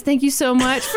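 a hint of her friend's gushing voice; imitating co-host. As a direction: copy her gushing delivery. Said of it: "now you're trying to do my voice".

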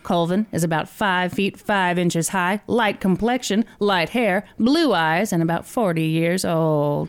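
put-on old-timey newsreel voice, mid-Atlantic. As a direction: read it like a 1930s newsreel. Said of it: "should I do it in an old-timey voice".

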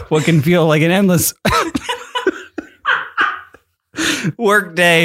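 breaking into laughter mid-read; laughing through the words. Real, not acted. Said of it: "What are you doing?".

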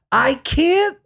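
lightly hammed-up Memphis crooner; Austin Butler voice. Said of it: "Austin Butler's voice".

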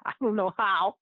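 ordinary talk

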